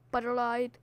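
a quiet repeat of the chant; soft catchphrase. Shown as a demonstration. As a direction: drop the volume on the catchphrase. Catchphrase said again, softer.

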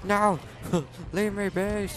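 high panicked pleading yells; panicked yelp. Real, not acted. Gamer chased in game, panicked pleading yell. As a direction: beg to be left alone, frantic.

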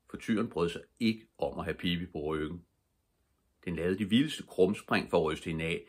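ordinary delivery

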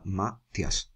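Matías as MA... tias, stress on MA; diphthong mispronunciation. Shown as a demonstration. Teacher showing a trapped i, Matías said MA-tias. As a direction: glue the i to the a in Matías, softly. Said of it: "una I que la va a atrapar".

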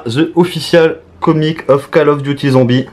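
English title in a thick French accent. Real, not acted. Unboxer reading out the comic's English title, French accent. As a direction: read the English with French sounds. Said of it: "Désolé pour mon accent".

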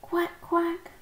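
high-pitched duck quacks; quacking. A narrator's reading. Ducks quack all round lost Daisy and Pip, high quacking.

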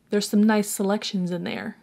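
lightly put-on Jersey accent; a hint of a Jersey mobster. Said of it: "Probably didn't sound like that".

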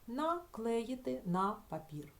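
slow, careful dictation of the phrase; teacher reading an example slowly; slow demo reading. Shown as a demonstration. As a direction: read it out slowly for the class. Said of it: "Чи можемо ми ось тут вставити якесь слово?".

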